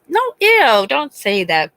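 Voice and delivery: high squeal of disgust on the no, then settling; grossed-out no. Retold or imitated. Mom recalling her own teen reaction, squealing in disgust. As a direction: recoil like a grossed-out kid.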